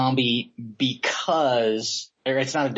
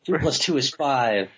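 mind blown. Acted. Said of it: "Mind blown".

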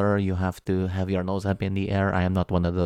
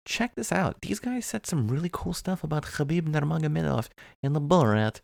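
excited friend recommending; 7 semitones higher than usual. Acted. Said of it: "Be like".

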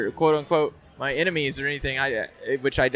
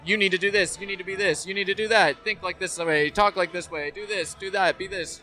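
higher-pitched list of demands, each falling; mock nagging orders; 4 semitones higher than usual. Voicing demands piled on us, mock nagging orders. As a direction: imitate pestering commands, one after another.

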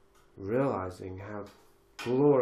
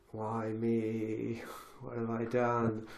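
drawn-out mock cry to the heavens; lightly hammed-up lament with sustained vowels; Griffin Dunne; much slower than usual. Imitating a film character's despairing cry to the heavens, mock lament. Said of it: "wants me to cry to the heavens like".

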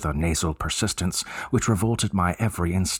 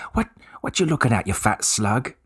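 higher, fast taunt in a Cockney voice; mock Cockney challenge; 4 semitones higher than usual. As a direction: throw the insult like a cocky young lad. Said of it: "that's how I says it".

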